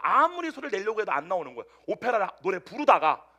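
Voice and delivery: normal talking voice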